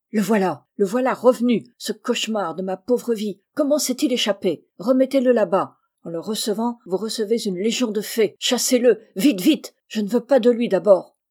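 loud, alarmed outburst; panicked, forceful demands; cry of fright. A narrator's reading. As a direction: cry out in dismay at seeing someone dreaded. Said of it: "poussa un cri d'effroi".

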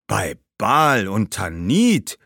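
slow, drawn-out ghostly exclamation; called-out oath. Acted. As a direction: exclaim it slowly, aghast. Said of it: "rief Hannibals Geist". (gedehnter Ausruf des Geistes)

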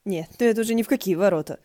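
loud, fast, indignant outburst; loud fast outrage at a street play; angry exclamation. Acted. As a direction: blurt it out in outrage. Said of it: "гневно воскликнул".

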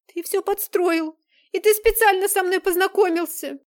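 high, loud furious cry; shouting in fear and anger; desperate accusation. Acted. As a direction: hurl the betrayal at him. Girl accuses Vlad in panic.

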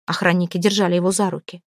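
ordinary delivery, nothing marked

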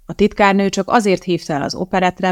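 ordinary delivery

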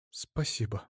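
a soft, hushed thank you; quiet thanks. Acted. Ada thanks her son, soft and hushed. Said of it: "тихо сказала".

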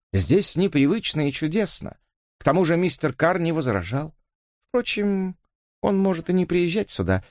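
lightly voiced young woman; earnest Mary. Mary explains. (смущённая девушка оправдывается)

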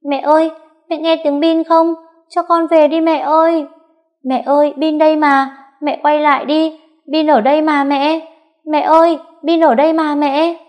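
put-on very high, loud desperate crying boy; little boy screaming for his mother to come back; child wailing. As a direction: howl for mom to turn back. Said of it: "lại gào lên".

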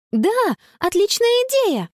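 high, glad exclamation; light up at the idea; delighted. A narrator's reading. Girl relieved by the idea, delighted. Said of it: "обрадовалась Конни".

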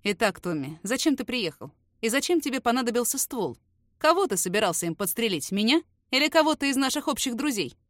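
even, detached interrogation; dry, cold questions. Acted. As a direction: ask it coolly, no warmth. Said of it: "Картер вновь сухо обращается к нему".

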